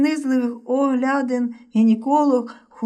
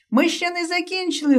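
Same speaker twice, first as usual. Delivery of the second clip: called after; 7 semitones higher than usual. A narrator's reading. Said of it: "гукнув Вася навздогін".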